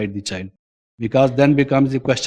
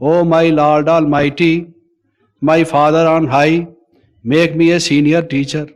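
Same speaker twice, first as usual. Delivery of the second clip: louder hammed-up plea to God; mock pleading prayer; 2 semitones higher, 4 dB louder than usual. Seeker begging God for senior rank, mock pleading. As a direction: beg the Almighty for a promotion, half in jest.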